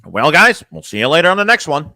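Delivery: mocking sing-song sign-off; Thomas impression. Streamer making fun of somebody's stream ending, mock sing-song impression. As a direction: sign off with exaggerated swooping pitch. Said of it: "ending with Thomas Mon".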